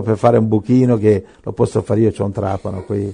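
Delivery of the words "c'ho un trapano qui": laughing. Real, not acted. Joking about his drill.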